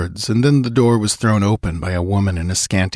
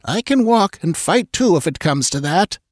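put-on high, firm old woman's voice; stern old woman; 11 semitones higher than usual. A narrator's reading. Old frontier woman refusing to ride, firm. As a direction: state it with grit.

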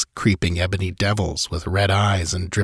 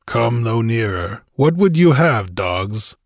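stern warrior; 2 semitones higher than usual. Acted. Conan challenges the pirates.

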